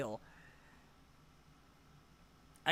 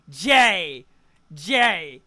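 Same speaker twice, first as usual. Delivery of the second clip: louder shocked call; 8 dB louder than usual. Real, not acted. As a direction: shout the name in disbelief. Calling out friend in shock.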